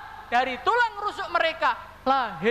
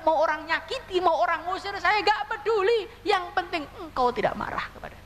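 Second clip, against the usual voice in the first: pleading prayer; 5 semitones higher than usual. Acted. Prophet's prayer voiced by preacher.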